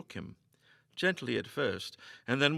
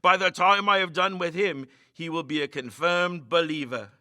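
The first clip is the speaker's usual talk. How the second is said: smirking; 5 semitones higher, 8 dB louder than usual. A narrator's reading. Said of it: "with a smirk".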